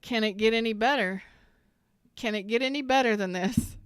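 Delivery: bursting with joy at good news; thrilled. Real, not acted. Reader thrilled by a love reading for viewers, excited.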